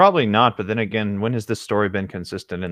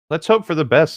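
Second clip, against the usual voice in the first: higher, louder hopeful doctor; doctor's voice; 8 semitones higher, 6 dB louder than usual. Acted. Doctor to the family before unwrapping, higher and louder. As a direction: announce it like a cheery doctor.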